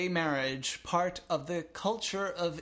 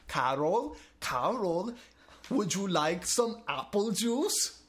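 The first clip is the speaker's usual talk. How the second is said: talking to an invalid; 3 semitones higher, slower than usual. Retold or imitated. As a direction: coax like speaking to a patient. Speaking to the mute Pope.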